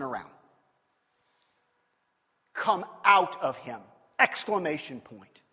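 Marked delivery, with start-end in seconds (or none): 2.5-3.8 stern command. Acted.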